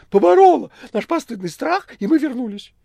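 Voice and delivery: very high, loud wheedling voice; cat Behemoth, boastful. A narrator's reading. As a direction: overplay heroic self-praise. (кот Бегемот хвастливо)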